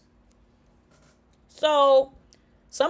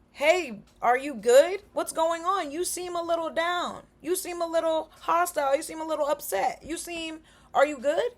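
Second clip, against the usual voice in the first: caring check-in; 4 semitones higher than usual. Shown as a demonstration. Showing a friend how to gently check on someone. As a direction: soften it like a worried friend.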